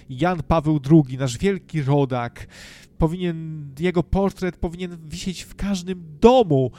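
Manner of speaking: loud mock church-loyalist proclamation; mock zealot. Parodies the ruling party's church devotion.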